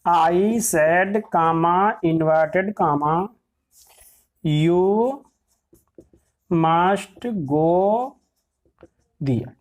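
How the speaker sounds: drawn-out words with long gaps; slow dictation. Shown as a demonstration. Teacher dictating an example sentence, slow dictation. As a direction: dictate it word by word, stretching each.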